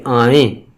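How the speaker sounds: آئیں as 'aa-en'; majhool nasal ending. Shown as a demonstration. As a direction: end آئیں on a nasal 'ay'. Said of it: "یائے مجہول مغنونہ". (آئیں کے آخر میں غنہ 'اے')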